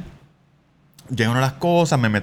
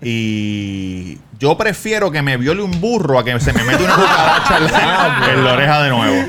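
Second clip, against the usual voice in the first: laughing; 5 dB louder than usual. Real, not acted. Laughing through the punchline.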